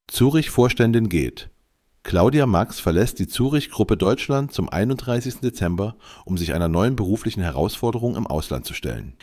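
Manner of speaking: AI-generated news read; steady computer newsreader voice; synthetic voice. Real, not acted. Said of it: "mit der synthetischen Stimme". (synthetische Nachrichtenstimme)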